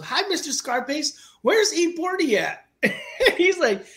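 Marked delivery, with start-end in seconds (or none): 0.0-2.6 high, innocent child voice imitation; little kid. Son asking a rapper for his idol, high little-kid voice. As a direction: pipe up as a small boy, "forty" as "pordy". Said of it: "my son goes".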